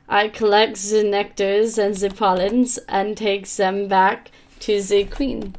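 slow, drawn-out reading of the bee's lines; slow bee narration. Acted. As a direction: read it lazily, dragging each word. Reading bee game text slowly.

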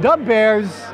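echoed mock Chicago fan accent; playful Chicago superfan accent. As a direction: toss it back in a Chicago accent. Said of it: "do the Chicago accent".

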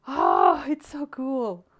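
gasping, high-pitched loud squeal of delight; gushing excitement. Retold or imitated. Vlogger re-enacting her reaction to the post review, gushing excitedly. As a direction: gush in awe with big drawn-in gasps. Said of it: "and I was like".

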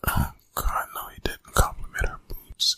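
hushed, mortified aside behind Mom's back; embarrassed whisper. Acted. Teen whispering to his friend, mortified. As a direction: whisper it so Mom can't hear, cringing.

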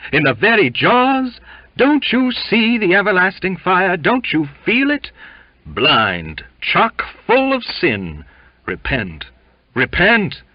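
high, loud, fiery hellfire preaching; roaring torrent. A narrator's reading. Cook preaches damnation at Jimmy, roaring entreaty and menace. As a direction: roar it as a torrent of entreaty and threat. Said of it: "words of entreaty and menace broke out of him in a roaring torrent".

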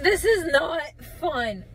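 laugh-crying. Real, not acted.

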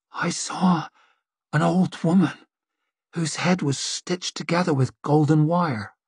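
rough, hollow seer in a trance; strange hollow voice. Acted. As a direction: speak a vision from far away. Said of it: "voice sounded strange, rough, hollow".

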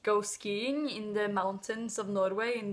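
stereotypical Norwegian accent. Shown as a demonstration. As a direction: put on a thick Norwegian accent. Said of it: "This is what a Norwegian accent sounds like".

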